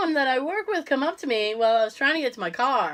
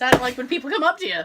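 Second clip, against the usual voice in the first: quick, complete restatement; full-stop finality; faster than usual. Shown as a demonstration. Insisting to co-host that's the whole sentence, quick and final. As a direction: rattle it off as a finished sentence. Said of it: "That's the end of the sentence".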